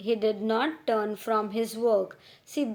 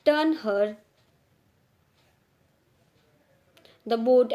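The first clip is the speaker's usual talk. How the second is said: shouted order; 5 dB louder than usual. Retold or imitated. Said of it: "he shouted".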